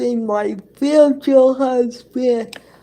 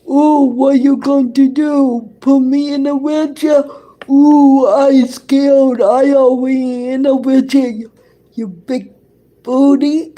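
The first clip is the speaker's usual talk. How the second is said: louder, mock-scared taunting; sarcastic retort, a bit raised; 2 semitones higher, 3 dB louder than usual. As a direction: taunt them with pretend fear. Taunting in an acted argument.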